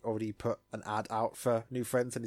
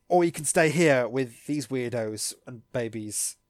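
slow, loud, dismissive; mocking jab; 7 dB louder than usual. Urging a partner to leave the weirdos, slow mocking jab. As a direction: drag it out with mock disdain.

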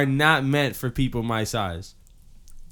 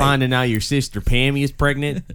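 put-on Southern accent for a joke. Friend teases the group about sister Pammy, Southern accent. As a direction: deliver it as a folksy Southern tease. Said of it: "you sound a little, a little Forrest Gumpy".

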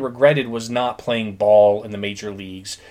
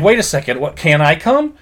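retold protest, slightly raised and higher; mildly angry; 4 semitones higher, 4 dB louder than usual. Retelling Ray left out of the corn, mildly angry. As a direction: object with a touch of mock anger. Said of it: "Ray gets angry".

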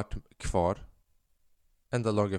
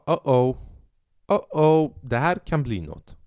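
mock ominous uh-oh; 3 semitones higher than usual. Comedian sensing a football comeback, ominous uh-oh. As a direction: tease that something big is coming.

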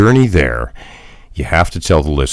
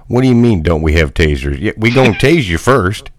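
Southern cop; 3 semitones higher than usual. Pretend. Playing a redneck cop.

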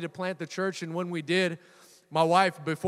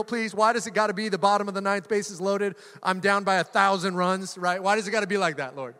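mock complaint; 3 semitones higher, 4 dB louder than usual. Mock complaint prayer to God.

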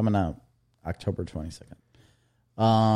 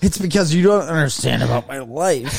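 mock crying dad; 4 semitones higher than usual. Mock dad sobbing to kids.

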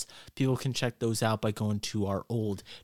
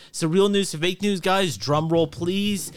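raised, louder drum roll hype; hyped announcement; 6 semitones higher, 5 dB louder, slower than usual. Acted. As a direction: build it up like a game show host. Host announces the fake news.

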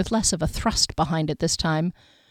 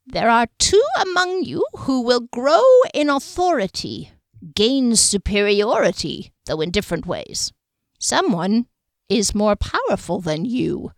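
diviner voice; 4 semitones higher than usual. Acted. Diviner prophesying.

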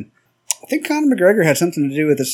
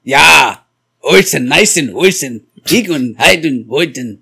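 put-on German accent; slower than usual. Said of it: "German words I know".

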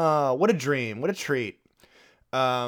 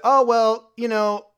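higher, louder, nervously laughing excuse; mock excuse; 7 semitones higher, 4 dB louder than usual. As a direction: play the caught husband fumbling a lie, laughing. Husband's excuse acted out, laughing.

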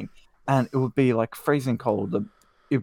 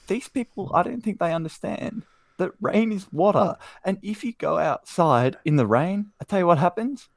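passionate rant; 6 semitones higher than usual. Real, not acted. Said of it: "Are you getting irrationally angry about this".

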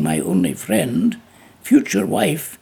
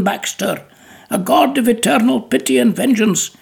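louder impassioned tirade building; raving; 2 semitones higher, 3 dB louder than usual. Acted. McCandless rants at Baxter to protect Bella, louder and impassioned. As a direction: rage at him like a melodrama hero. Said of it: "I raved in the language of novels".

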